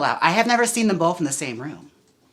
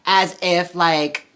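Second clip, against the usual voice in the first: laughing; 5 semitones higher, 9 dB louder, much slower than usual. Real, not acted. Laughing at the viewer's question.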